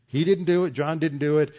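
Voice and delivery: he didn't, John didn't, driven home; emphatic denial. Acted. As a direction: hit "didn't" hard both times, insisting. Stressing Peter took no credit.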